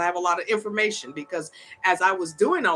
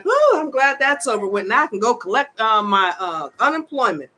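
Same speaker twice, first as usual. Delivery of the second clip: raised, louder mock of a carefree woman; a hint of a breezy young woman, imitated; 3 semitones higher, 5 dB louder than usual. Mimicking the new citizen chatting to her friend, breezy. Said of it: "and she's like".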